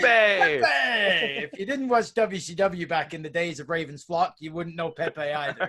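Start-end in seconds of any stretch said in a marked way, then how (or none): 0.0-1.4 gleeful high entrance yell; hyped-up shout. Acted. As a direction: shout it like a delighted fan. Echoing the entrance with glee.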